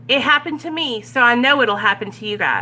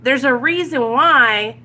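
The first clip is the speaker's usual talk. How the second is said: sponsor calming; 3 semitones higher, 4 dB louder, slower than usual. Retold or imitated. Sponsor Sandra slowing down her panicking sponsee, slow and firm. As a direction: rein in an overeager sponsee, slowly. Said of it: "And then she was like".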